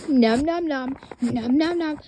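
loud hammed-up nom nom chomps; cartoon monster eating noises; mock monster chomping. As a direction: chomp at the camera like a hungry monster. Camera pretends to eat viewers.

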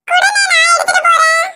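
put-on high little girl offering to carry the plate; child's voice. Young daughter offers to carry the customer's plate in a childlike voice. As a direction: pitch up like an eager little kid.

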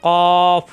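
emphatic কফ held full; heavy Arabic letter. Shown as a demonstration. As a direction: push কফ out heavy from the back of the throat. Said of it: "মোটা হবে".

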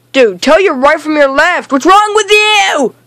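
rising into an exasperated holler; exasperated scolding. Real, not acted. Gamer asks teammate what's wrong with him, exasperated. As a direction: scold a useless teammate, climbing in pitch.

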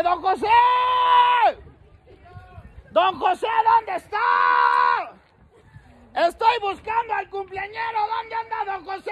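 shouting for don José as announced; shouting for him. Real, not acted. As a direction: shout toward the door. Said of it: "Vamos a gritarle a don José".

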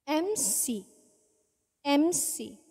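MC reverb effect. Shown as a demonstration. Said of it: "Then we have the M C".

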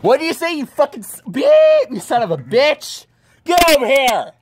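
high angry shouting; angry yell. Acted. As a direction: bark the threat in fury. Acted angry threat.

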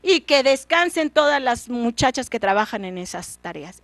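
regaño alto y fuerte del rey furioso; el rey castiga al muchacho a gritos; rey enojado. Acted. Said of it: "el rey se enoja tanto". (rey furioso regañando)

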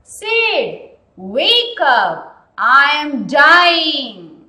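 loud pleading cry; mock cry for help, loud; cried aloud. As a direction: call out to wake your brother. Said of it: "he cried aloud".

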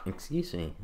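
hiccup interrupting the words. Real, not acted. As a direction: say it mid-hiccup. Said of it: "oh, I had a hiccup".

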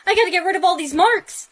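loud, urgent exclamation; panicked urgency. Acted. Girl fears losing Harvard over marks, panicked. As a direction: blurt it out loudly, needing to act now.

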